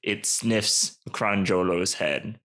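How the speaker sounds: slow, measured narrator; deliberate storytelling voice; suspense narration. A narrator's reading. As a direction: narrate it slowly, letting tension hang.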